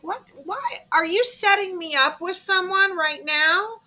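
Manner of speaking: high-pitched, mock-alarmed questioning; incredulous protest. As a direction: protest as if caught in a setup. Acted protest at being set up.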